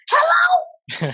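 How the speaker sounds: high, loud, irritated "Hello?" on a late call; grumpy phone answer. Retold or imitated. Picking up a late-night private call, irritated and loud. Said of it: "it was like".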